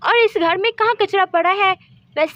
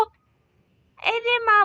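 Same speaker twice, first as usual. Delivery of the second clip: अरे माँ stretched very slowly, whining, higher; drawn-out whine; 4 semitones higher, much slower than usual. Acted. Hurt daughter complaining to her laughing mother, slow whining wail.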